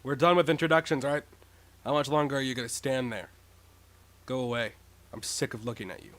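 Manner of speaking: haughty rich heir voice; arrogant rich kid. Acted. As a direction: look down on them, dismissive. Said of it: "Affluent prodigy".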